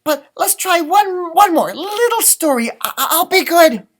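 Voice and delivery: high begging chick voice; little chicken voice. A narrator's reading. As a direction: plead eagerly up high.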